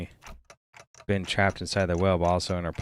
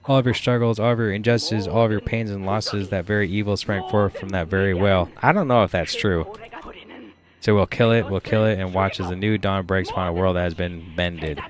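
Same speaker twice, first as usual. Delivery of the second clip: louder, building battle speech; rousing rallying cry; 3 dB louder than usual. Acted. Captain rousing the crew to hunt the whale, loud. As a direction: whip the crew into a frenzy.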